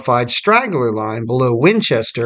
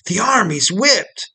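higher pitch, volume kept at narration level; mild narrated shout; 6 semitones higher than usual. A narrator's reading. Unstrung colonel fleeing the rout, understated shout back. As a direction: call it back with restraint. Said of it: "shouted back".

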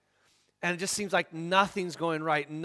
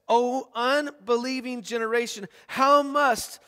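exasperated rebuke; 5 semitones higher, 4 dB louder than usual. Acted. Jesus' harsh rebuke to father.

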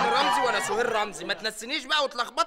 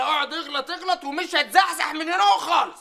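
defiant shout; 4 semitones higher, 3 dB louder than usual. Acted. Defiant sit-in standoff.

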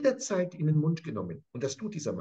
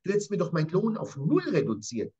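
open accusation; faster than usual. Acted. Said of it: "Er spricht das offen aus".

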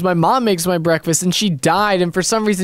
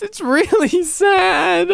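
laughing mid-line; 8 semitones higher, much slower than usual. Real, not acted. Laughs through a sad line.

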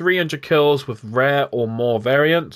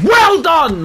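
sarcastic; 12 semitones higher, 7 dB louder than usual. Real, not acted. Sarcastic repeat at teammate.

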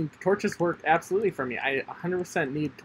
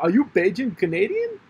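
higher, louder excited call; 7 semitones higher, 6 dB louder than usual. Real, not acted. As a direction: shout it out like spotting a famous player. Excited shouted question.

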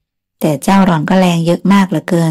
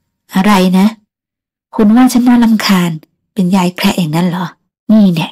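a touch of indignant anger; mild mock outrage. Small woman fires back at the driver, mildly indignant. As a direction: huff back at the insult. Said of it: "กำปั้นเล็ก ทุบตี".

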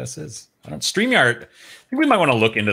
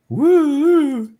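excited; 6 dB louder than usual. Real, not acted. Excited cry looking closer.

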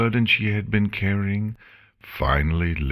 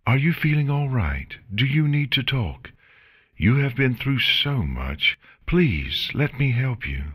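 lightly raised, kindly Celestia voice; gentle Celestia; 8 semitones higher than usual. Acted. Celestia gently coaxing Chrysalis to come back, lightly voiced. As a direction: offer comfort like a caring princess.

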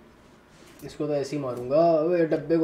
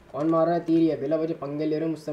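annoyed shout; 4 dB louder than usual. Real, not acted. Someone shooting arrows at him.

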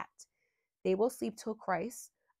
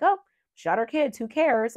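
higher, louder careless tone; imitating an uncaring viewer; mock callous shrug; 5 semitones higher, 7 dB louder than usual. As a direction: play someone who couldn't care less.

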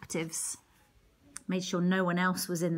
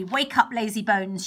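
loud, gruff witch barking at Gretel; rough wake-up call; 5 dB louder than usual. Acted. Witch rousing Gretel roughly, loud and gruff. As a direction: shake her awake with a loud voice.

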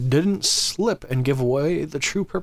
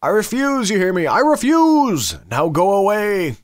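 angry screaming; 5 semitones higher, 5 dB louder than usual. Acted. Angry woman sends strangers away from her window, screaming. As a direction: yell it like an outraged householder. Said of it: "began to scream at them".

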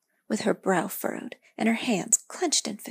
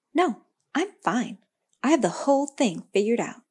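sharp, louder snap; snapped; 3 semitones higher, 6 dB louder than usual. Acted. Girl snapping at the tree, lightly voiced but louder. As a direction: bite off the words, brushing off help. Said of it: "the girl snapped".

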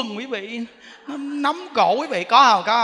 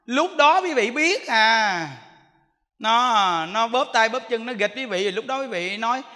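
ordinary talk, nothing marked

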